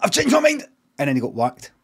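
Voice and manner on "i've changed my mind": imitating a high, loud pleading yell; hammed-up high-pitched last-second plea; desperate cry. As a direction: shriek it like a dying man suddenly begging. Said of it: "he went".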